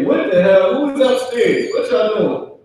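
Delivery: hammed-up father yelling at noisy kids; mock angry parent. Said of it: "the father is angry".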